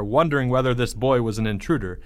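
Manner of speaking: ordinary delivery, nothing marked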